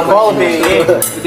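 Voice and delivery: slow Australian accent demo; drawn-out Aussie vowels. Shown as a demonstration. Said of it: "Australian accent, mate".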